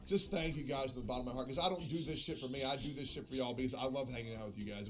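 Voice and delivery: sincere thanks. Real, not acted.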